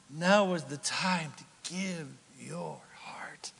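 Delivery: whispered altar call. Acted. Pastor drawing the church to worship, whisper. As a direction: lean in and whisper the invitation.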